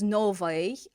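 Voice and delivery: "новой" with the final "ой" weakened to "uy"; everyday reduced ending. Shown as a demonstration. Teacher pronouncing it authentically for learners, reduced ending on "новой". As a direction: stress the first syllable of "новой", let the ending reduce. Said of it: "pronouncing it more authentically in everyday speech".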